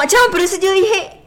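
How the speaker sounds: high, loud protest through laughter; laughing protest. Real, not acted. Player finds the surname was copied, laughing protest. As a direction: complain loudly while cracking up.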